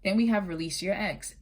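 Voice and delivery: ordinary delivery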